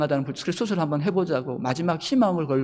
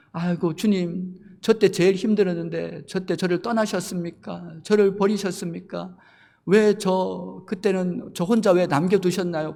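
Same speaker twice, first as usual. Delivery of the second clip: slow, pleading lament to the Lord; lamenting prayer; 5 semitones higher than usual. Retold or imitated. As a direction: plead with God, hurt and abandoned. Believer cries to the Lord.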